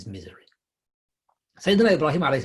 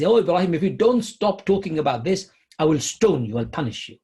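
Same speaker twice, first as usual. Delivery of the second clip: fed-up father; 5 semitones higher, 4 dB louder than usual. Acted. Father fed up, threatening Ibrahim.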